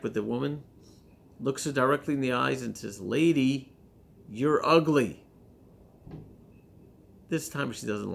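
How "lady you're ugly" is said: loud parrot voice again, a bit less punch; parrot insult. Acted. Parrot repeating its insult to the woman, loud. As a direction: call it out to her face, fairly loud.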